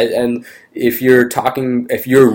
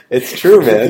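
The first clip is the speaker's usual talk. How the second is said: amused; 3 semitones higher than usual. Real, not acted. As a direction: say it through the tail of real laughter. Still laughing at the joke.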